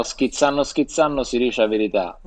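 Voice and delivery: Sicilian proverb in dialect; sicilian accent. Shown as a demonstration. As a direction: say schizzando the Sicilian way. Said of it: "diciamo in siciliano". (accento siciliano)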